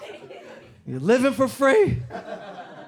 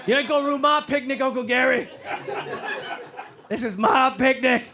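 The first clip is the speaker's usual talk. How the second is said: higher, mock-threatening redneck; mean redneck; 4 semitones higher than usual. Drunk on Wild Turkey, warning Uncle Gary, mock redneck threat. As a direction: hold your ground at the picnic.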